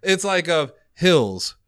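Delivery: lightly imitated narrator, slow and deliberate; audio description narrator. Friend mimics a movie's audio description, slow narrator voice. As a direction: spell out the scene slowly, mimicking a describer. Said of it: "literally the woman says".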